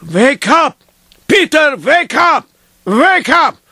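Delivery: lightly acted rabbi waking a sleeper; insistent wake-up call, rising in pitch; urgent rousing. Rabbi shaking Peter in his dream, urgent rousing. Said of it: "he shakes me, and he says".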